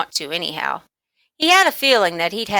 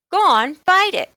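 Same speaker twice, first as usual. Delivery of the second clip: high, loud dare; girl daring him, high and loud; 12 semitones higher, 6 dB louder than usual. A narrator's reading. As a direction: push him to do it.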